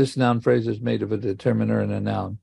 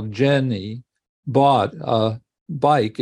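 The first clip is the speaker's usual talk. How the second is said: slow, weight on Jenny, bought and bike; spaced out to show the stresses; stressed syllables picked out; much slower than usual. Shown as a demonstration. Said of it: "then it's a stressed syllable".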